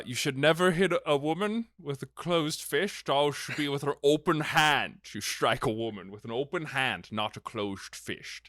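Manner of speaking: lightly voiced Scottish film star, slurred s; hint of a Scottish Bond actor; Sean Connery. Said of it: "who says".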